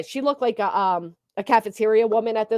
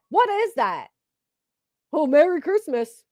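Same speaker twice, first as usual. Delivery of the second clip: mock disbelief; 6 semitones higher than usual. Real, not acted. Mocking disbelief.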